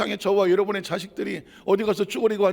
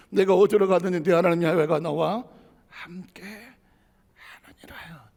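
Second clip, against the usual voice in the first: fading to whisper. Acted. Preacher quotes scripture, ends hushed.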